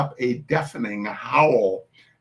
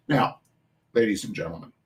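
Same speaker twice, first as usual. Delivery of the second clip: ordinary delivery, nothing marked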